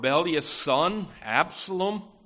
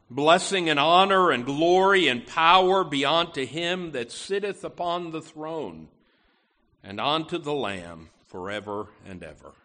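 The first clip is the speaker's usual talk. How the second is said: scripture reading. Acted. Pastor reading Revelation to the congregation, solemn proclamation. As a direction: proclaim the verse from the pulpit.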